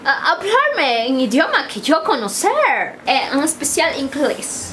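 put-on broken Spanish with gringa accent; American accent on every word. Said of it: "Aunque habla como gringa".

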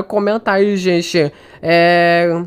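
usual speaking voice

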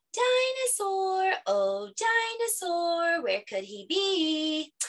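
high, slow, drawn-out calling; make-believe searching call. Acted. Children pretend they can't find him.

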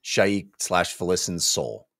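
lightly voiced solemn hero; grim resolve. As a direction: set your jaw and commit to the task. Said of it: "Lorik is like".

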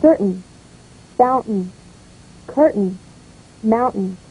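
CER-tain, FOUN-tain, CUR-tain, MOUN-tain, with reduced endings; unstressed ending. Shown as a demonstration. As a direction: stress the first syllable of Certain, fountain, curtain, mountain. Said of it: "Unstressed in the noun or adjective form".

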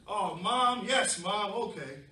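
puppy giving in. Acted. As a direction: give in with a grudging sigh.

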